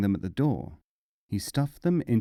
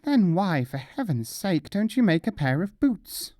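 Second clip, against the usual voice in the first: exasperated outburst; 7 semitones higher than usual. Acted. Mullah exasperated with shopkeeper.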